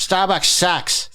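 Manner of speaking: lightly voiced scornful coffee fan; mock fan. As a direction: sneer it slowly like a snob fan. Mocking Dunkies fans.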